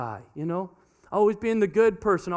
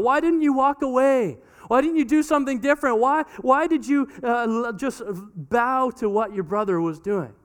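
scolding parent; 5 semitones higher than usual. Retold or imitated. Parent scolding older daughter, raised exasperated voice. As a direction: pile the blame on her.

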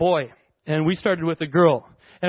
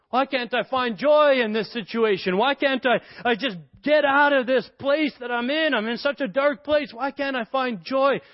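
higher-pitched acted lament; frustrated plea; 5 semitones higher than usual. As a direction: plead in mild frustration. Voices someone stuck without joy.

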